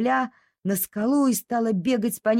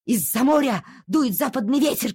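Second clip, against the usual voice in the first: dog calling; 4 semitones higher than usual. Acted. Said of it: "кричала собака".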